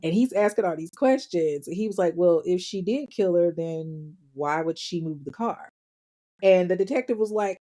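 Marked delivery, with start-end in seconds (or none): 2.2-5.7 measured question, softening at the end; calm, reserved. Retold or imitated. Brother questioning the detectives, calm and reserved. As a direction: imitate a reserved man reasoning it out. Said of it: "like, more calm and reserved".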